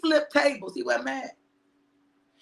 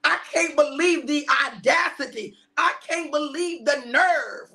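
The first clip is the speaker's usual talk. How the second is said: indignant disbelief. Retold or imitated. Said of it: "you just, like".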